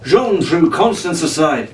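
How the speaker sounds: lively adventure read-aloud; storyteller building suspense; story narration. A narrator's reading. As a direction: read it like a bedtime adventure serial. Reads adventure novel aloud.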